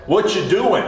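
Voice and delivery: put-on a touch of thick New Jersey accent. Coworker asks about a prayer at lunch, New Jersey accent. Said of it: "says to me in his thick New Jersey accent".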